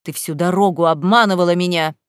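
loud, angry outburst; husband furious at being deceived; barking accusation. A narrator's reading. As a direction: throw the accusation at her. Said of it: "рявкнул Саид".

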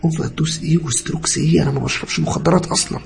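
high-pitched, indignant bewilderment; protest, unable to understand the accusation; baffled disbelief. A narrator's reading. Patient denying drug use to doctor, baffled protest. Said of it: "برقت له وأنا مش فاهم".

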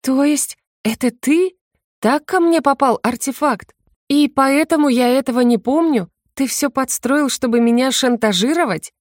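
she realizes he set her up; shocked realization. A narrator's reading. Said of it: "в невыразимом шоке". (потрясённо, высоко)

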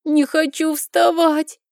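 put-on very high, slow child's whine; a scared boy refusing; tearful whine. A narrator's reading.

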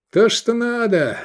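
high, slow delighted shout. Acted. Iskander shouting in delight at his new blades. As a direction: cry it out in triumph. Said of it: "крикнул он".

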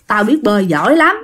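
mild grumble rising into protest; grumbling. Acted. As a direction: complain under your own steam, mildly put out. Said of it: "Ông Hải cũng cằn nhằn nói". (cằn nhằn, hơi bực)

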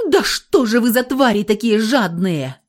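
loud, high furious outburst; girl snapping at the guards, furious; losing her temper. A narrator's reading. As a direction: explode at them. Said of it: "Вышла из себя".

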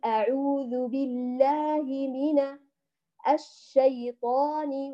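slow chanted recitation, الشيطان joined to من; Quran recitation. Shown as a demonstration. Teacher recites the phrase joined for her students, slow chant. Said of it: "وأنت بتقرأ الاستعاذة".

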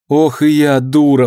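sudden loud outcry, slow; cry out. A narrator's reading. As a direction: exclaim in dismay, loud. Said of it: "вскричала она вдруг".

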